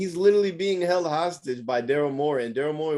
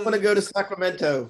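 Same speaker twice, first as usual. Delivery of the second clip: mock Australian accent; 5 semitones higher than usual. Co-host joins mocking the player, higher Australian accent. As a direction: chime in with a playful Australian accent. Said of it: "say it with an Australian accent".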